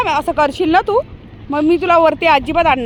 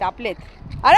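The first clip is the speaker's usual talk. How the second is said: usual speaking voice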